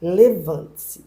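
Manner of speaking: slow, measured calling voice; slow retold summons; retold divine voice. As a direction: imitate God calling, drawing out the words. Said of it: "Aí ele falou assim".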